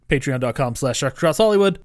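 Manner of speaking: "sharks" rushed, its S swallowed; spoken too quickly. Shown as a demonstration. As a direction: rattle off "sharks" fast, dropping the S. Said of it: "I spoke too quickly".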